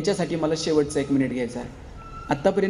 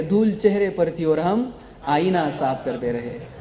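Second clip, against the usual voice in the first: slow, measured couplet recitation; reciting a couplet; slower than usual. Acted. Speaker reciting an Urdu sher to the audience, slow and deliberate. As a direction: savour each word of the sher slowly. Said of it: "एक शेर आहे".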